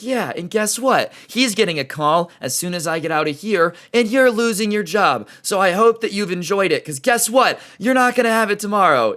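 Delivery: high, heated taunting threat; mock shrill threat. Lady threatens clerk's job.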